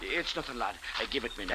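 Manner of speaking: nervous plea. Acted. Hiding money, pleading quietly.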